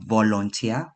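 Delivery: "volunteer" in the common East African way; East African pronunciation. Retold or imitated. Grammarian quoting the speaker's slip, East African volunteer. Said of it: "especially in East Africa".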